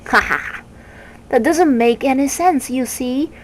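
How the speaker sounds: hammed-up bird laugh, then explaining; the Word Snatcher laughing at Milo; cackling bird. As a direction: laugh it off like a know-it-all.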